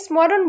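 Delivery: "স্মরণ"-এ ম উচ্চারিত, "স্মরোন"; ভুল উচ্চারণ, ম-সহ. Shown as a demonstration. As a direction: say "স্মরণ" as smoron, with an audible m. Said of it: "বলি না কিন্তু". (ম-সহ "স্মরোন" উচ্চারণ)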